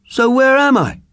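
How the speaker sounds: high, small newborn voice; a tiny creature blinking awake; baby snake. Acted. Newborn snake asking where he is, high and small.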